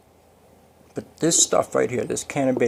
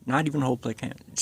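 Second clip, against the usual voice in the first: fast, softer self-correction; quick correction; 4 dB quieter, much faster than usual. Real, not acted. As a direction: rush the corrected phrase. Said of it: "or no, skip that".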